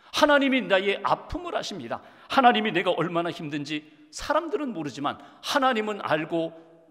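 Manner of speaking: rising, emphatic preaching cadence; fervent sermon. Acted. Pastor preaching to his congregation about hurt, with rising fervor. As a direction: preach it to move the flock.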